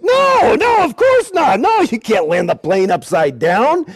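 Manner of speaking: mock the lady's shocked refusal; airline lady's refusal. Retold airline lady refusing.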